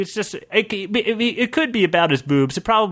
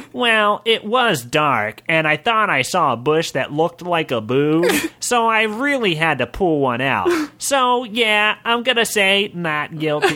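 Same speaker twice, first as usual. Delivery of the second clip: goblin voice; 4 semitones higher than usual. Acted. Goblin pleads not guilty.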